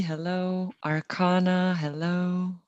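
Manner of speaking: usual speaking voice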